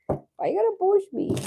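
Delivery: squeaky high, offended protest; high mock indignation. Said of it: "She just went like that to me".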